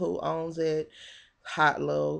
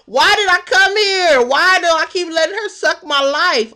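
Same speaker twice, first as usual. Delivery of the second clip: half-laughing mock rant, much louder and higher; 10 semitones higher, 9 dB louder than usual. Imitating Kimsha's rant about the show, loud and laughing. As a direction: blurt it out between laughs, bigger and higher.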